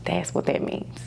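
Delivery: hushed whisper of emphasis; whispered aside. Real, not acted. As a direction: drop to a whisper, confiding. Grief talk, quiet emphasis.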